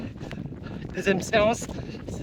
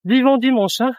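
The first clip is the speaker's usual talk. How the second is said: loud call; 5 semitones higher, 8 dB louder than usual. Real, not acted. Calling out, loud.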